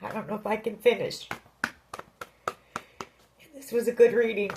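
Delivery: real tears close, fighting to get the words out; emotional. Real, not acted. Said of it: "I'm getting kind of emotional right now".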